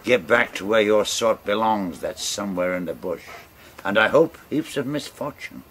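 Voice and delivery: rain curses down on him; furious curse. Acted.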